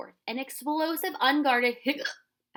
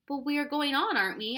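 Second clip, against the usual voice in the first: hopefully; 6 semitones higher, 6 dB louder than usual. Acted. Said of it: "asked Ben hopefully".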